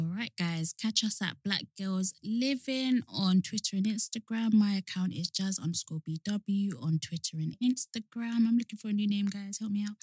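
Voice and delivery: monotone plug for the socials; monotone sign-off. Real, not acted. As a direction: read out the socials evenly, low and soft. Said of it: "We sound really monotone".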